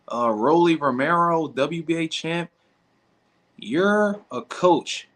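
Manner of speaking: high, slow, put-on proper voice; mock prim voice. Streamer reading a chat comment back in a mocking prim voice. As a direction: read the comment back in a snooty voice. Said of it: "you want me to talk like I'm white".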